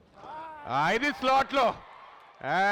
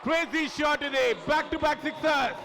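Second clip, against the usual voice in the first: excited commentary; 6 semitones higher, much slower than usual. Real, not acted. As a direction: stretch out each word as the six lands. Back-to-back sixes called live.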